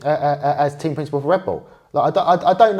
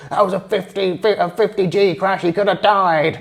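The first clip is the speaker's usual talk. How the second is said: Christian Horner impression; 5 semitones higher than usual. Podcast host imitating the team boss on the radio after the crash, put-on voice. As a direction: play the frantic team boss shouting down the radio. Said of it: "That's a really good impression".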